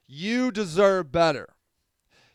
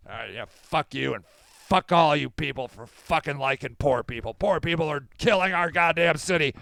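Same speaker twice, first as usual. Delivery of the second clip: mock-angry rant in a put-on voice; hammed-up cranky tirade; angry Dan; 2 semitones lower than usual. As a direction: grumble it, then build in force. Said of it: "why are you so angry?".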